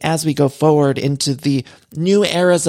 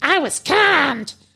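play-acted screeching yell, pitched way up; 12 semitones higher than usual. Recalling a time a cast member lost her temper: imitating Vicky shouting. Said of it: "Remember when she was, like, shouting?".

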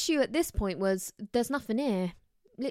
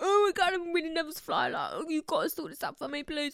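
mock crying, high-pitched and tearful; 6 semitones higher than usual. Retelling breaking down in the boarding queue, imitating own crying. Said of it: "I'm crying, I'm like".

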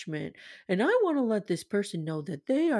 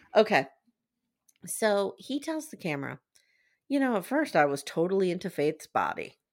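ordinary talk

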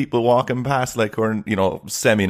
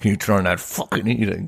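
put-on speaking through gritted teeth, lower pitch; 3 semitones lower than usual. Acting out a quoted request while chatting: mock gritted-teeth request. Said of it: "you're saying it through gritted teeth".

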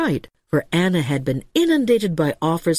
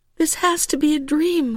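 faint, very high-pitched voice, barely there; 10 semitones higher than usual. Narrator reads a woman answering a talking cat: faint voice. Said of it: "Anna said faintly".

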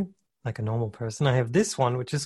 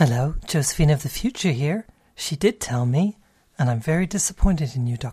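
prim, proper delivery; 2 semitones higher, 3 dB louder than usual. Host speaking as Josephine of the future to Dr. J, in a very proper voice. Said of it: "she's very proper voiced".

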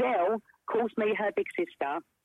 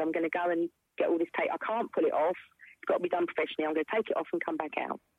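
ordinary talk

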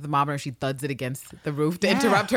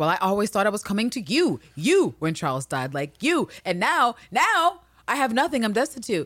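put-on wailing, mild screaming outburst; 4 semitones higher than usual. Retelling a quarrel between two characters: imitating a screaming woman. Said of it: "she's screaming".

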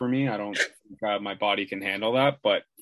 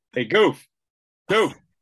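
loud, high hollered call-out; 8 semitones higher, 7 dB louder than usual. Retelling how a dad called to a mascot from afar: imitating Ralph calling out. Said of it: "he just goes".

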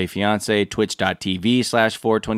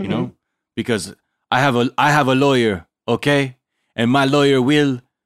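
put-on Belgian accent, higher pitch; 4 semitones higher, 4 dB louder than usual. Speaking on a podcast, in a weird Jean-Claude Van Damme accent. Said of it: "some weird Jean-Claude Van Damme accent".

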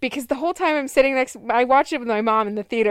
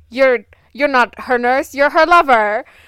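loud, failed, fumbled attempt at a French accent; 5 dB louder than usual. Retelling a scene from Death on the Nile, quoting Poirot in a failed French accent. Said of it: "my French accent failed me right then".

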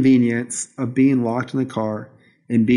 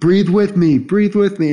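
super goofy clowning voice, loud and high; 8 semitones higher, 5 dB louder than usual. Retelling a man leading breathing exercises in a car: imitating him being goofy. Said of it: "he's just being super goofy".

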